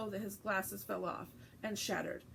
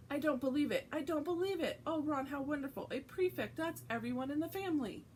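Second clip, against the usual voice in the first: thrilled mother; 6 semitones higher than usual. Acted. Mrs Weasley thrilled over prefect.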